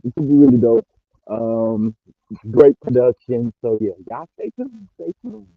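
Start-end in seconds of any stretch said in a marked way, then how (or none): 0.0-0.9 excited. Real, not acted. Repeated, higher.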